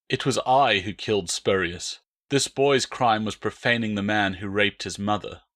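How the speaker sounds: level, steady confession; even and calm. Acted. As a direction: say it evenly, no heat. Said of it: "Marcus said evenly".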